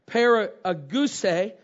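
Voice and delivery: "paragouse" pronounced very slowly, syllable by syllable; Greek word spelled out slowly. Shown as a demonstration. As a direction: draw out each syllable of "paragouse". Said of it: "Now, the Greek word here".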